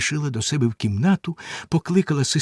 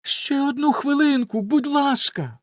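pleading; 13 semitones higher than usual. A narrator's reading. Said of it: "попросила".

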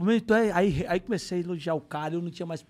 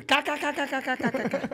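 imitated laughter; 8 semitones higher, 4 dB louder than usual. Neymar laughs at the insult.

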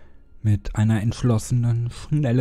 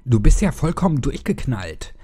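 shocked outburst; 5 semitones higher, 7 dB louder than usual. A narrator's reading. Boy shouts at attacker.

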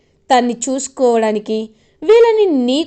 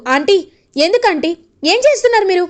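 put-on pleading kids; 6 semitones higher, faster than usual.

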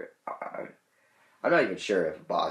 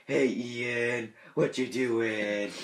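lightly mocking sing-song baby talk, a little higher; talking to a toddler; 4 semitones higher than usual. Mimicking how people talk to a toddler, a light sing-song. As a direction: chirp it like cooing at a two-year-old. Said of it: "I don't really want people to go".

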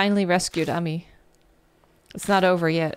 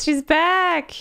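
higher, happy laugh through words; 9 semitones higher than usual. Real, not acted. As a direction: laugh with relief. Laughs while repeating.

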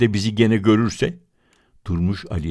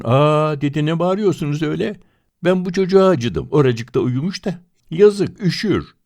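surprised woman; 9 semitones higher, 5 dB louder than usual. Acted. Woman exclaims in higher voice.

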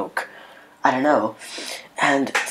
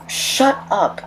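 much higher mock snap, put-on voice; curt shut up; 9 semitones higher than usual. Annoyed teller retorts to neighbour.

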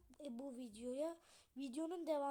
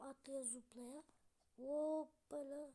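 slow singsong; much slower than usual. Real, not acted. Jumping in parkour game.

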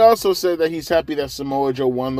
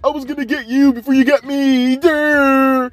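much higher, dim-witted mock voice with a loud "duh"; hammed-up dumb guy mocking Adam Cole; dopey mock voice; 12 semitones higher, 6 dB louder than usual. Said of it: "he's just like".

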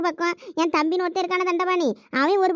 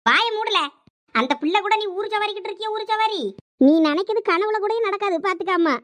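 scolding mother; 3 semitones higher than usual. Acted. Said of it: "எதுக்கு இப்ப நீங்க கத்திக்கிட்டு இருக்கீங்க".

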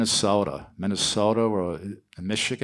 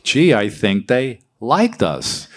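put-on Brooklyn accent; 3 semitones higher, 3 dB louder, slower than usual. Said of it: "I had to get rid of the accent".

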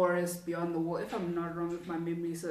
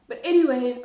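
loud; 6 semitones higher, 11 dB louder than usual. Real, not acted. Snapping out of a tangent.

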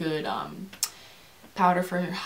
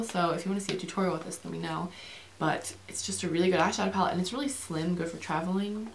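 quick, chatty run-on delivery; rushing along conversationally; talking fast. Real, not acted. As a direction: rattle it off at a brisk clip. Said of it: "I'm talking fast again".

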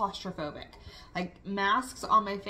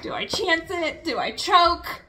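panicked inner thought; 8 semitones higher, 6 dB louder than usual. Retold or imitated. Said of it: "and I'm just like".

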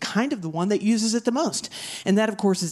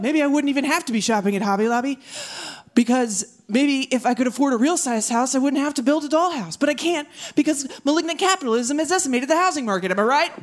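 high and fast, fishing for applause; earnest rant; 6 semitones higher than usual. Acted. Comic baiting the crowd for applause, high and fast. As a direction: rush to the line they'll clap at.

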